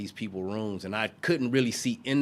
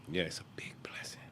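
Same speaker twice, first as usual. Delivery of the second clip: holding back tears; 4 semitones lower, 12 dB quieter, faster than usual. Real, not acted. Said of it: "I'm trying not to cry".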